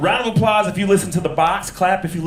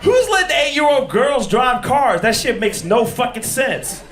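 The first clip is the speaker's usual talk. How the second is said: incredulous; 8 semitones higher than usual. Retold or imitated. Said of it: "I'm like".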